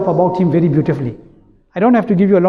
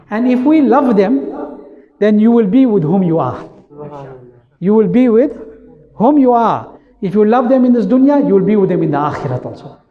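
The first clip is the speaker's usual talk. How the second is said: preaching with fervor. Acted. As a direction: drive the promise home to the crowd. Preaching at full force.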